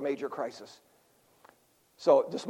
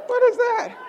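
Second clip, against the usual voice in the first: laughing shout; 12 semitones higher than usual. Real, not acted. Laughing at congregation's reaction.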